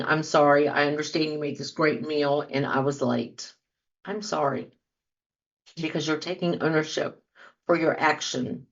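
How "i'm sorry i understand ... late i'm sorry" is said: sincere and softer, fading at the end; mean every word, gently; sincere apology. Shown as a demonstration. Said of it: "by saying".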